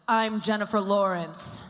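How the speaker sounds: Jennifer Lawrence. Acted. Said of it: "I can do an impression of her".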